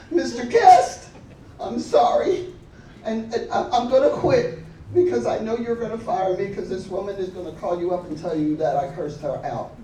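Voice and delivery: high, fast, laughing apology to the boss; nervous apology. Retold or imitated. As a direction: blurt out sorry, scared of being fired. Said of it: "I went into John's office".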